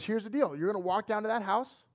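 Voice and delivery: lightly voiced dad giving an ultimatum; stern dad. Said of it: "and he says".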